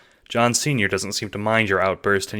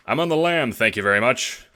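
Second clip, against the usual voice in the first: gangster boast; 5 semitones higher, 4 dB louder than usual. A narrator's reading.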